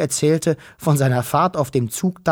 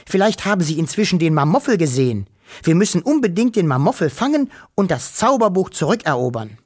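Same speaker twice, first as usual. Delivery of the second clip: eager little Wawuschel; 5 semitones higher than usual. Acted. Wuschel eager for adventure.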